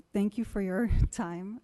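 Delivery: laughing nervously through the thanks. Real, not acted. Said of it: "I'm sorry I got nervous".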